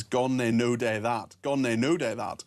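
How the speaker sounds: Glasgow phrase shown off slowly, stress on "no"; Glasgow accent. Shown as a demonstration. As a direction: demonstrate a Glaswegian accent, leaning on "no". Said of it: "A great Glasgow phrase is".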